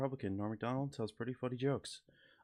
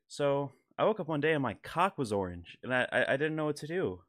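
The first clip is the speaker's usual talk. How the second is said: Norm Macdonald impression; 2 semitones higher than usual. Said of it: "this is my rendition of the Norm Macdonald joke".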